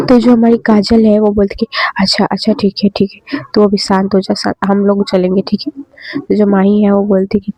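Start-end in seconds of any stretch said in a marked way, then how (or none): 2.0-5.8 soothing calm-down. Acted. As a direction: hush her gently so she stops crying. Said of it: "माही को थोड़ा समझाती है".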